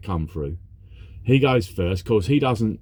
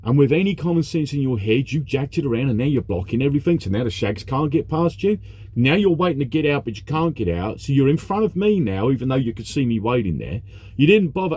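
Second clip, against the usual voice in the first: retold angry rant; 4 semitones higher than usual. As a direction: lecture the careless driver as if he's in front of you. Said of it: "And I'm like".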